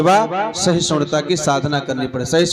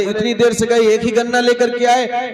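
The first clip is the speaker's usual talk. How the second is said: acted-out reproach, pitched higher; a cross wife taking her husband to task; mild mock scolding; 5 semitones higher than usual. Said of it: "बड़ी जोर की डांट लगाई".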